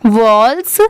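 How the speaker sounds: walls said fully with the S sounded; full final S. Shown as a demonstration. Teacher showing the final S must be read, वॉल्स said in full. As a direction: pronounce वॉल्स right through to its final s. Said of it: "पूरा अच्छे से पढ़ेंगे".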